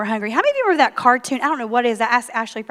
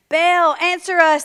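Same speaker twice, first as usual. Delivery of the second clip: slow, higher call to Baal; shouted plea; 6 semitones higher, 4 dB louder, slower than usual. A narrator's reading. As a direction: cry out to the idol. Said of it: "they shouted".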